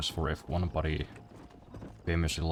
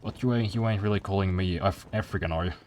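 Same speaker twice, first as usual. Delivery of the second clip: mock Southern accent; 3 semitones higher than usual. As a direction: play an affronted Southerner, lightly hammed up. Acting the Southerner objecting.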